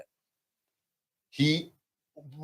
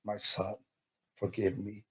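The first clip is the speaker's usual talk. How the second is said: grandmother's apology; 3 semitones lower, 10 dB quieter than usual. Retold or imitated. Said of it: "She started with".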